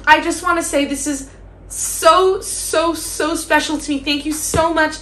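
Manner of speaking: high-pitched, hammed-up award winner's gratitude; mock Oscar speech. Holding a pretend trophy at the Oscars, hammed-up thank-you speech. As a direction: play an overwhelmed winner thanking the academy. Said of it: "this is my thank you speech at the fucking Oscars".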